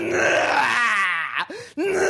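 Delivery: monster roar. Pretend. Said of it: "筋肉増強剤を異常に打たれた怪人みたいに".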